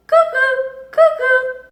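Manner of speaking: high, loud, slow bird call; playful cuckoo imitation. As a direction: sing it like a cuckoo clock.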